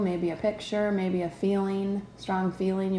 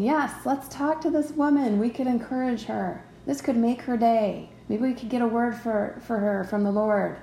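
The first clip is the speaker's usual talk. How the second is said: lightly voiced, upbeat spirit urging kindness; eager spirit; 3 semitones higher than usual. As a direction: play the willing spirit, a little raised and keen. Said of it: "So your spirit's saying".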